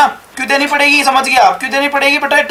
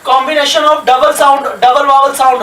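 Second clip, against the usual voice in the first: very slow, word by word for students to write; dictating a definition to students; slow dictation; much slower than usual. Shown as a demonstration. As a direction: spell it out slowly like dictation. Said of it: "teacher dictating a definition".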